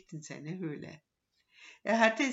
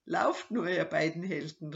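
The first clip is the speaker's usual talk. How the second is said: mocking call; 4 dB louder than usual. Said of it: "rief er ihnen nach".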